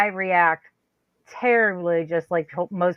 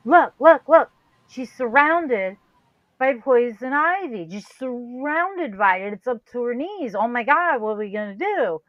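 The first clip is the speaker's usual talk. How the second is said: panicked; 4 semitones higher than usual. Retold or imitated. Man shows mom she's surrounded by poison ivy, panicked. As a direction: point out the danger frantically, pitched up.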